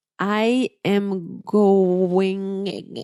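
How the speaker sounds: slow, labored, struggling read with words stretched. Recalling first reading english with a heavy accent, imitating their old struggling reading. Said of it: "this is how I read".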